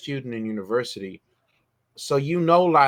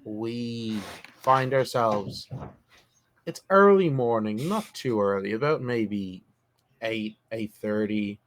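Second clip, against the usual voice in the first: game master narration. A narrator's reading.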